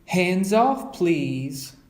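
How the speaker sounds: a light warning to the cub; Mama. Acted. Mother keeping the cub off the treats, firm.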